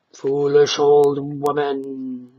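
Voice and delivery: slow, cold android voice; contemptuous stranger. Acted. Stranger scorning the laughing old woman, contemptuous. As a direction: sneer it down at her. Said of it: "the stranger said".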